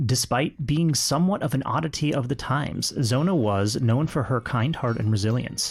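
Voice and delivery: measured storyteller's read; story narration. A narrator's reading. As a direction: tell it as a true tale, unhurried. Reads the prepared story aloud.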